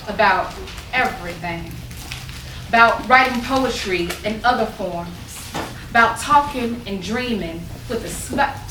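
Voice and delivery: measured, lilting poem reading in vernacular; poetry recital. Acted. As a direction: linger on each phrase, pausing between lines.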